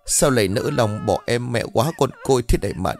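acted widow's tearful lament; sobbing wail. Newly widowed wife crying over her husband's body, sobbing wail. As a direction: wail through sobs, without real shouting. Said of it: "gào lên nức nở".

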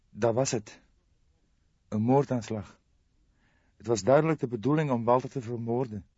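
a shocked young woman breaking bad news; young woman Jolanda. Jolanda continues. (geschokte jonge vrouw, hogere stem)

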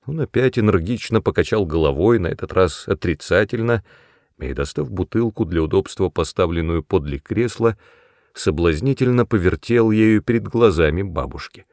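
plain reading voice

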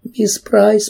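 выше и громче, сквозь рыдание; отчаянный всхлип навзрыд; всхлипывая громче. A narrator's reading. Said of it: "продолжала всхлипывать Кэрри". (громче, навзрыд)

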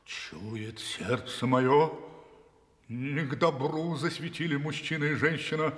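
a wild horse fears the fire in the cave; wild horse's foreboding. Acted. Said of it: "и дико сказал".

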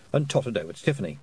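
usual speaking voice

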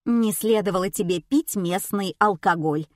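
ordinary delivery, nothing marked

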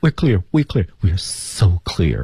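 eager pupil hurrying to agree. Acted. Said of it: "而阿宝的回答却是".

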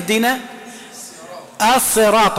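الصراط with an emphatic heavy ص; with Sad. Shown as a demonstration. Teacher reciting the verse to show the ص. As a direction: intone الصراط with a full emphatic ص. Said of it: "قراها بالصاد".

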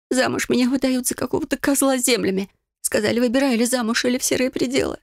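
a lightly voiced upset young woman; distressed heroine. A narrator's reading. Heroine complaining to friends about the forced marriage, upset.

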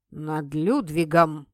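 медленно, ниже, с гордостью; хвастается победой над котом; гордо. A narrator's reading. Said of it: "гордо провозгласил чертяка". (гордо провозглашает)

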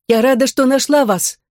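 high, bright exclamation of relief; glad. Acted. Android relieved to find the children, gladly.

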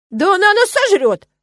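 slow, high, loud squeal; indignant squirrel. A narrator's reading. Squirrel objects to minding Iriska, indignant squeal. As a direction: wail it in squeaky outrage. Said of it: "возмутилась белка".

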